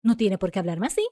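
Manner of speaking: dime tú punched, then the rest rushed, fast; exasperated quick complaint; indignant aside. Shown as a demonstration. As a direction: toss in the aside, then hurry on. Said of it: "Mas si yo escribo".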